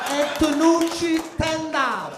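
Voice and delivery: loud, slow indignant reading out; mock outrage. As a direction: spit the name out slowly in disgust.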